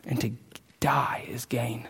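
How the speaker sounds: soft, slow hush; slow whisper to close the scripture. Real, not acted. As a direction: let the last words fall away.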